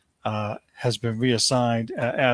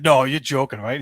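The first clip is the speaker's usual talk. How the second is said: retold disbelief; 2 semitones higher, 4 dB louder than usual. Acts out own disbelief at news.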